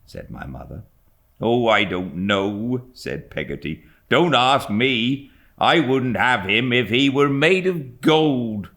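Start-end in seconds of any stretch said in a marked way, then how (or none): 1.4-8.7 servant Peggotty. A narrator's reading. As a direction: huff it out like a flustered nurse. Peggotty voiced in story.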